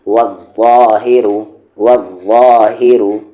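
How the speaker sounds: वज़्ज़ाहिरु with a strong, heavy ज़; firm heavy articulation. Shown as a demonstration. Teacher showing the letter with firmness, heavy ज़ in वज़्ज़ाहिरु. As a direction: press firmly into the doubled ज़ of वज़्ज़ाहिरु. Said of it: "थोड़ी मजबूती के साथ और heavy करते हुए".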